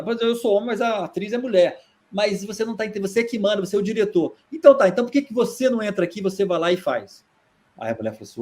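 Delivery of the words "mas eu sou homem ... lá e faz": higher, heated challenge; heated retort. Retold or imitated. Director Boal challenging the audience woman, higher and heated. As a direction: challenge her to do it herself.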